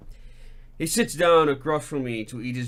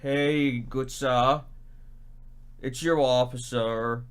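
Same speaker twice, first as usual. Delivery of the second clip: lightly imitated sleepy drawl, slow in places; half-asleep officer voice; slower than usual. Officer phoning the bridge, lightly mocked as half asleep. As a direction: mumble it like you are barely awake. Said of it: "in his well-known and still totally asleep voice".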